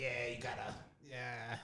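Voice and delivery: heavy chain smoker's voice. Acting out a gas station worker giving directions: imitating a smoker's voice. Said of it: "my man got a smoking voice".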